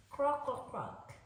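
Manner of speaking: a croak like a frog who lost his voice; hoarse croaking. Acted. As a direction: croak it out, voice nearly gone. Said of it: "he said".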